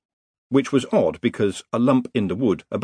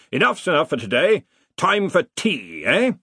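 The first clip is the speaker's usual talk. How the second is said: put-on higher, slowed, tired old master; weary Arch-Chancellor; 7 semitones higher than usual. A narrator's reading. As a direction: call a halt to the game, half resigned. Ridcully calls off the game.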